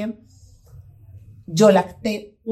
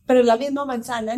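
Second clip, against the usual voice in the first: quick, a bit higher, reasoning gently; patient mother; 5 semitones higher, faster than usual. Retold or imitated. Mother explaining to her son about the apple, patiently. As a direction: try to talk sense into the kid.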